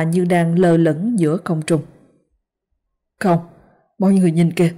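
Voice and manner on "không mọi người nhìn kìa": alarmed pointing out. Acted. Urgently pointing out the apparitions.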